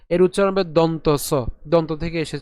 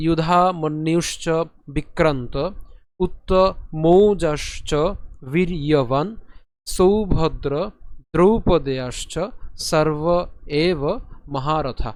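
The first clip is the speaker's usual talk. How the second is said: slow, deliberate Sanskrit shloka reading; measured model reading for learners; full verse recitation; slower than usual. Shown as a demonstration. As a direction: recite phrase by phrase with careful long vowels. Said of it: "সম্পূর্ণ শ্লোকটি যদি উচ্চারণ করি".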